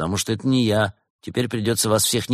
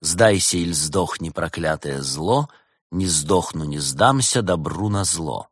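slow, measured verse at moderate pitch; rhythmic recital; 2 semitones lower, slower than usual. Acted. Detective tries the quote as a rhyme, recited slowly. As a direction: recite it as a couplet, drawn out. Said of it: "А если так?".

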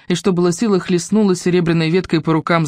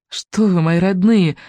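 smiling; slower than usual. Acted. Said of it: "улыбнулась Мелисенда".

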